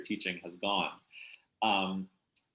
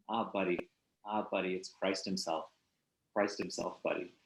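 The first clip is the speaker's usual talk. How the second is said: reading aloud. Shown as a demonstration. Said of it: "I'd love to read if it's okay".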